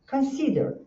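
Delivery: "consider" begun with a quick "k'n"; K with schwa. Shown as a demonstration. Teacher models it for students, K with schwa. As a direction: reduce the O of "consider" after a clean K. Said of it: "é K".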